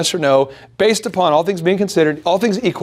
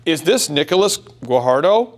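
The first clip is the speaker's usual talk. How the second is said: formal cold caller. Shown as a demonstration. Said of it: "Check it out".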